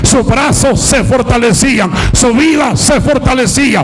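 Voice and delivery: driving, rhythmic sermon climbing in pitch; impassioned pulpit cadence, easing at the close; fiery preaching. Real, not acted. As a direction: pile up each phrase with growing fervor. Preaches at full force.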